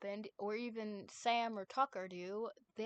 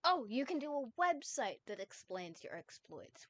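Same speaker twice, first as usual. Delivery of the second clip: excited; 3 semitones higher than usual. Acted. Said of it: "Wes suggested excitedly".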